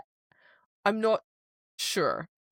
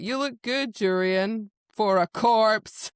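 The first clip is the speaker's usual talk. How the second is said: sly taunt; 2 semitones higher, 5 dB louder, slower than usual. Retold or imitated. Host voicing Rhys mocking Jurian, sly taunt. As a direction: land the insult with a smirk.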